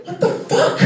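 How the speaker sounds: high-pitched exasperated disbelief; startled exclamation. Retold or imitated. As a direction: blurt it out high, caught off guard. Startled dad interrupted by screaming.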